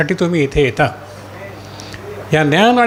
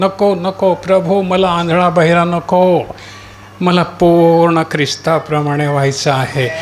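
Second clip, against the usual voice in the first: insistent, repeated petitions to the Lord; crying-out prayer. Shown as a demonstration. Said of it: "कशासाठी आरोळी करायची आहे".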